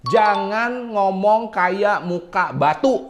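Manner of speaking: drawn out slowly, batu rising at the end; stone-faced delivery demo. Shown as a demonstration. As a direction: stretch it slow like a warning. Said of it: "Maksudnya jangan flat gitu ya".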